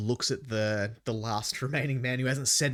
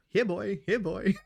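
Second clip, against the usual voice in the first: raised coaxing dog call; 9 semitones higher than usual. Acted. Player calling the wolves like a dog, raised and coaxing. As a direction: coax a dog over.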